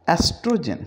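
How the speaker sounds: estrogen said with a silent O, starting on the E. Shown as a demonstration. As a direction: begin estrogen on the E. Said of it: "ओ को इसमें भी हम नहीं बोलेंगे".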